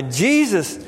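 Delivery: imitated cry for help, pitched well up. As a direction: call out for mercy, drawing out the last words. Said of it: "began to cry out and say".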